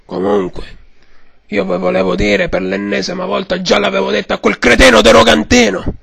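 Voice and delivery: hoarse mock mafia boss; Godfather voice. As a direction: complain like an old don. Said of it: "signor Padrino".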